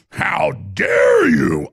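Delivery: evil queen. Retold or imitated. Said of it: "This is how a woman sounds".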